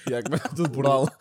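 words broken by laughter; giggling while naming teams; laughing. Real, not acted. Cracking up over Qatar team names. (a rir)

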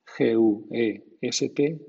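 "guest" with a silent U; GU as hard G. Shown as a demonstration. Teacher shows G U sounding as G, hard-g "guest". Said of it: "G U suena G".

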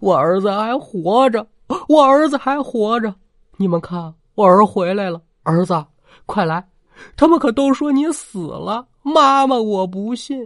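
put-on old woman raving that her son is alive, shouting; frantic shouting. A narrator's reading. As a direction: shout like she's losing her mind. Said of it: "大吵大嚷".

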